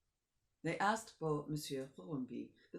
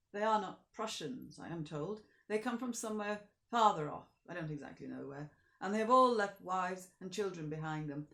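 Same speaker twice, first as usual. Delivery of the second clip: put-on an old village beadle, louder and earnest; old beadle pleading the soldiers' case to the Count, louder; 3 semitones higher, 5 dB louder than usual. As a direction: speak up kindly for the soldiers as the old man. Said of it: "The old man answered".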